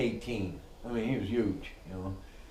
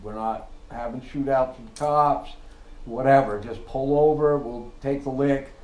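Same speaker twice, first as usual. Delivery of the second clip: firm loud orders; 3 semitones higher, 7 dB louder than usual. Retold or imitated. Boss instructing crew before stop.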